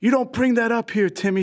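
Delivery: high-pitched retold outburst of distress; hammed-up upset scolding; mock upset teacher. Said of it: "starts breaking down, crying".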